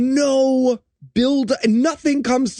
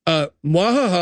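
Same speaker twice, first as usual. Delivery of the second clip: villain laugh; 2 semitones lower than usual. Acted. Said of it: "No, you don't".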